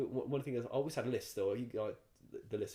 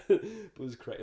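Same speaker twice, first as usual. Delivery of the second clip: laughing through the words, higher and louder; 10 semitones higher, 10 dB louder, slower than usual. Real, not acted. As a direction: laugh as you say it. Laughing at his own story.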